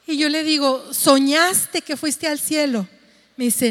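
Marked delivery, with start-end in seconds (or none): 0.9-2.9 slow questioning. Retold or imitated. Mother questions daughter, slow.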